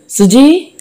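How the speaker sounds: a high rising call of her name; a lover's anguished cry across the room. Acted. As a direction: cry out to the one he has lost. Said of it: "Mohan గావుకేకతో ఆ భవనం దద్దరిల్లింది".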